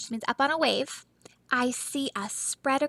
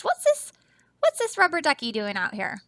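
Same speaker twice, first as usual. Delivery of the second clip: confused seal; faster than usual. Acted. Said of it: "what these two seals are thinking".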